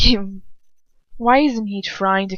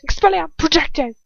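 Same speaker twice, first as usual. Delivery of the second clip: spell shout; 9 semitones higher, 5 dB louder than usual. Acted. Father and son dueling, shouting the spell. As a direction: cry the spell out high and loud.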